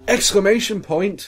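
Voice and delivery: high, loud, drawn-out cry; hammy, slowed exclamation. Acted. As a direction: shout the punctuation itself. Reads punctuation as exclamation.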